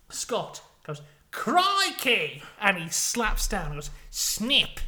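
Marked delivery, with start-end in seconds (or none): 1.3-2.4 loud, high Aussie exclamation; hammed-up triumphant yell; excited cry. Scott spots the match. 4.1-4.8 loud, high, sudden call; hammed-up Aussie winning shout; triumphant snap call. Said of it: "like that".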